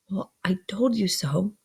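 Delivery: hushed, breath-only aside; reproachful aside. A narrator's reading. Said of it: "Joe gave a reproachful cough".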